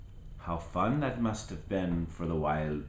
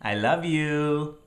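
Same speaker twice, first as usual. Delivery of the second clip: higher, lingering on you; tender goodbye; 6 semitones higher, 4 dB louder than usual. Real, not acted. Grandparent signing off to grandchild, tender higher I love you. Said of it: "And I sure do love you".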